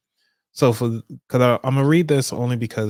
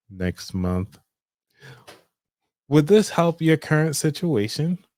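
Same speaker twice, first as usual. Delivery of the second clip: receptionist voice; 3 semitones higher, slower than usual. Acted. Receptionist returns with an offer.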